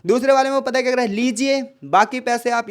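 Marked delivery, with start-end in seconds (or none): 1.1-2.7 लीजिए pushed out first and leaned on; slow and deliberate, hit लीजिए as if handing the money over; slow offer with weight on लीजिए; stress on लीजिए. Shown as a demonstration. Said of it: "लीजिए पर वो बहुत ज़्यादा क्या है, जोर मार रहा है".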